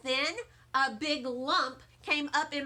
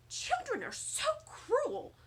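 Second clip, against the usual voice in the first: grandma sad; 9 semitones higher, 3 dB quieter than usual. A narrator's reading.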